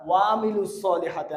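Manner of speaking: ওয়া আমিলুস with 'wa' merged into a long 'waa'; common misreading. Retold or imitated. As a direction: run ওয়া into আমিলুস without ayn. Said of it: "আমরা পড়ি".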